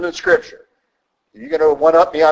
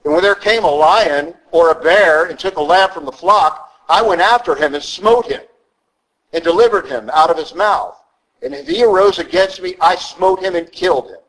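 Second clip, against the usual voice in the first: David; 3 semitones higher than usual. Retold or imitated. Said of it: "This is what David said".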